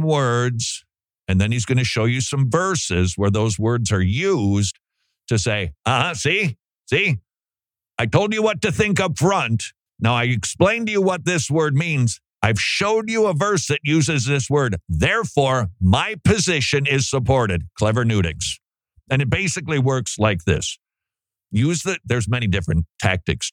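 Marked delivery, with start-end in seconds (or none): 5.9-17.7 high, smug mocking voice; smug know-it-all. Mocking the teacher he critiques, high and smug. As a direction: lampoon a preacher's smug proof.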